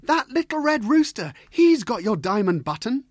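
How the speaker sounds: high, loud urgent calling out; crying out. Acted. Servants crying out to their Sultan, loud and urgent. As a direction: shout it up to the Sultan. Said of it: "they cried".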